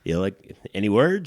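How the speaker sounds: a hammed-up upbeat text read aloud. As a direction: keep it bright and breezy, fishing for news. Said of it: "keeping it upbeat".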